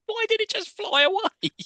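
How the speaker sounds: high incredulous question; baffled. Retold or imitated. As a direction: sound totally baffled. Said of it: "I was like".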